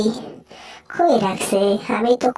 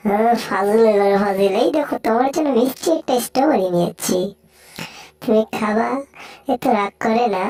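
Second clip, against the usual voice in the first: lower, grumbling cat voice, threatening then coaxing; gruff cartoon cat; 4 semitones lower than usual. Cat threatening the mouse who hurt his friend, low gruff voice. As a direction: growl like a sulky tomcat, lower.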